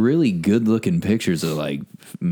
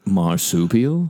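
whisper; slower than usual. Real, not acted. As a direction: whisper it back. Whispered mishearing.

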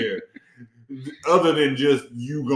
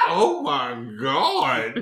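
drawn-out oh my God; 3 semitones lower, much slower than usual. Retold or imitated. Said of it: "and we just like".

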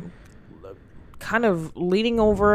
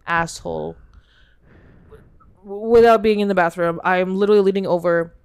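loud, frantic plea; desperate yelling; 6 dB louder than usual. Acted. Caller yelling his accident at the supervisor. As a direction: yell for help in a panic.

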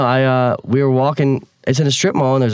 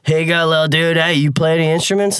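a higher, chummy celebrity voice; friendly pop star; 6 semitones higher than usual. Retold or imitated. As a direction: play the breezy star greeting a fan. Jesse to kid.

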